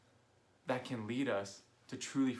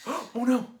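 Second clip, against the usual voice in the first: high, loud dismayed cry; shocked oh no; 13 semitones higher, 9 dB louder than usual. Retold or imitated. Friend realizes he cut the sideburn off, high shocked cry. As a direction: squeal it out in alarm.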